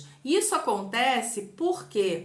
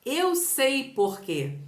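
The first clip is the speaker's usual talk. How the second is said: slow exclamation demo; much slower than usual. Shown as a demonstration. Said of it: "junto ao ponto de exclamação".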